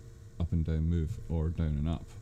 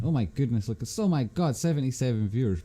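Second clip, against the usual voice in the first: surprised; 6 semitones higher, 5 dB quieter than usual. Real, not acted. Sees viewer count jump live.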